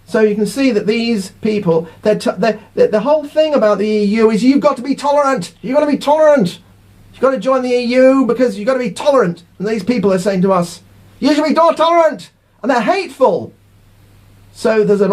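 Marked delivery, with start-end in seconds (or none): 2.7-9.4 higher, sing-song mock of a preachy slogan. Leaver mocks Remainers' call for tolerance, sneering sing-song. 11.2-12.3 higher, prissy mimicking of a lecture; mock lecturing. Leaver imitates Remainers lecturing him, mock preachy voice.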